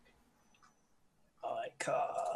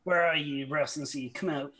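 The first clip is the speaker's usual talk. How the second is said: raised voice, loudest at the start; mild acted shout; 3 semitones higher, 4 dB louder than usual. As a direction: call out to a hidden foe. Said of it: "I'll shout".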